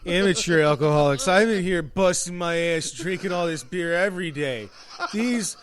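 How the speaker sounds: mock the old regular grumbling about tourists; grumpy bar drunk. Old drunk at the bar ranting about out-of-towners, lightly voiced. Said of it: "the miserable old drunk guy at the bar".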